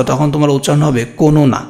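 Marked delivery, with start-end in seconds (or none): 1.0-1.6 কোনো না with an extra vowel, "ko-no-na"; three open syllables in কোনো না; without hasanta. Shown as a demonstration. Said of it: "যদি তুমি হসন্ত না ইউজ করো". (হসন্ত ছাড়া "কোনো না")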